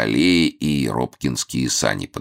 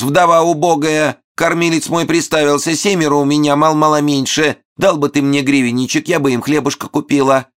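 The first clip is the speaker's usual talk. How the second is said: pleading falsetto widow; 13 semitones higher, 5 dB louder than usual. A narrator's reading.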